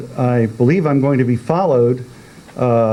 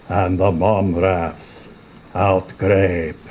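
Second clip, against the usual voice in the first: poem reading. A narrator's reading. Poet reciting Jabberwocky to an audience, measured. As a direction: savour each strange word. Reading nonsense verse aloud.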